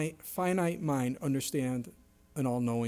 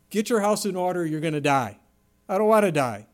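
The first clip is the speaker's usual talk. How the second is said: louder pleading cry; 3 semitones higher, 6 dB louder than usual. Retold or imitated. Hezekiah told by Isaiah he will die, crying out. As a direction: call out in alarm. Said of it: "And he's crying out".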